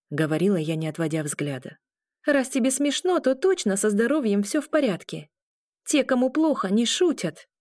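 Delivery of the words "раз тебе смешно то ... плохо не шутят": lightly voiced heroine, a bit higher and firm; a hint of a young woman scolding; young woman, stern. A narrator's reading. Heroine firmly telling the teasing man he is fine.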